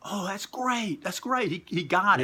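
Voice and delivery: slow, high, amused; amused delight. Retold or imitated. Wrestler admiring the fans' sign, amused. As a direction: savour it with a chuckle. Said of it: "Tully sees it and Tully goes".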